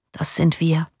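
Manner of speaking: understated, matter-of-fact resignation; resigned shrug. A narrator's reading. Prisoner shrugs to his brother about the mob's cry, resigned. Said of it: "die Achsel zuckend".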